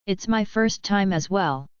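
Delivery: flat, emotionless monotone. Acted. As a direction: say it in a level monotone voice. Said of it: "said the girl in her monotone voice".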